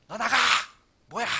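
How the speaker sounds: loud, high furious yell at a stranger; bossy yelling. Pretend. Entitled rich man yelling at the caretaker, furious shout. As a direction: bark it out like an entitled boss. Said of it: "갑질하는 사람들은 막 물컵 집어 던지고".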